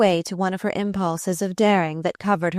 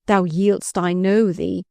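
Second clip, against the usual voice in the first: triumphant; 3 dB louder, slower than usual. Acted. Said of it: "he cried triumphantly".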